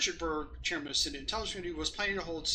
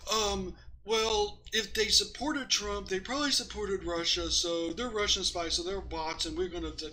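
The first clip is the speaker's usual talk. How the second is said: mock accuser; 3 semitones higher than usual.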